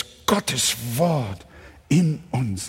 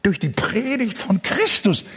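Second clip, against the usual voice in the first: raised, higher-pitched call; said out loud; 7 semitones higher than usual. Shown as a demonstration. Preacher prompts congregation to say it aloud, raised voice. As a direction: say it out for the congregation to echo. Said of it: "sagt es laut".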